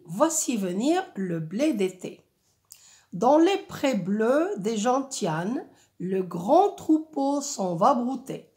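measured, clearly articulated verse recitation; poetic reading. Shown as a demonstration. Teacher quotes the author's meadow verses to pupils, poetic reading. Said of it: "un rythme et un ton, euh, poétique".

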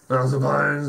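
lightly imitated West Country farmer; a hint of West Country farmer accent. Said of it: "this is like the one guy going".

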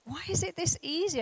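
amazed. Retold or imitated. Nervous flyer amazed at takeoff.

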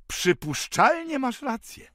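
high, loud, slow delighted agreement. A narrator's reading. Benjamin agrees with Sender, delighted and loud. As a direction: beam with delight. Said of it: "powiedział uradowany Benjamin".

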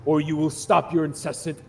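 loud stern outburst; angry judge. Acted. Sphinx judge angrily silencing the haggling goblin. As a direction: slam the word enough down.

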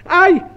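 a high, loud startled "Aïe!"; sharp cry of alarm. Acted. Companion yelps in alarm at the glowing iron, high and loud. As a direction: yelp as if the boy is burning his hand.

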